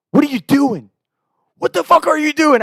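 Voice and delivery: high, indignant mock yell; imitating exasperated brother. Brother catches him on the blood trail, outraged.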